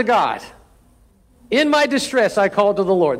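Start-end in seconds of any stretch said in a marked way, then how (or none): 1.5-3.2 higher, measured reading of the prayer; polite prayer. Retold or imitated. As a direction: read it as a neat, polite line. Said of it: "a polite way of putting it".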